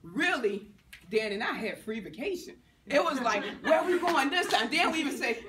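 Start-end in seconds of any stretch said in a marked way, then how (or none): 3.6-4.7 laughing tease. Retold or imitated. Joking with husband about trips.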